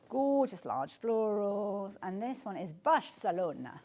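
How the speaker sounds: put-on "Barcelona" in a playful Spanish accent; slow down and put on a Spanish accent. Host names the fabric to viewers, mock Spanish accent. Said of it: "say it in that accent".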